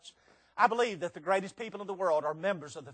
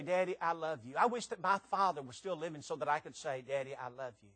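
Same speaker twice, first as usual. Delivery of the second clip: soft, low, heartfelt words to a father; tender longing; 4 semitones lower, 5 dB quieter than usual. Acted. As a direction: let it sink softly with love. Tender words to his late father.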